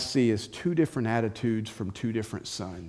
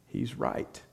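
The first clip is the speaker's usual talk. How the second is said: whisper; 8 semitones lower, 9 dB quieter than usual. Real, not acted. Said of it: "quiet aside".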